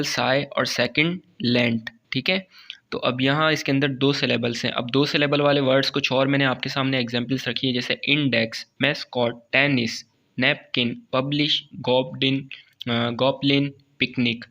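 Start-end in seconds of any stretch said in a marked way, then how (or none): 0.0-1.9 "साय" and "लेंट" each said as a separate part; syllables set apart. Shown as a demonstration. Teacher numbering the syllables, "साय" and "लेंट" spoken separately. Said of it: "first syllable". 8.1-14.4 each word in two parts, as in "इन-डेक्स"; broken into syllables. Shown as a demonstration. Teacher reading two-syllable examples, "इंडेक्स" to "पिकनिक" each split in two. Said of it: "जो मैं break कर रहा हूँ".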